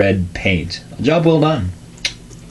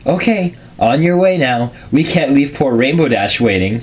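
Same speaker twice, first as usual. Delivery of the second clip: higher, half-hearted bakery lady voice; a hint of a bossy shopkeeper shooing him out; attempted Miss Cake voice; 4 semitones higher than usual. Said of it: "I have no idea how to do Miss Cake's voice".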